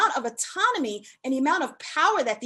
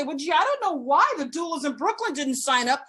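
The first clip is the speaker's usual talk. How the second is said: mock innocent. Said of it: "And then you're gonna sit here and say".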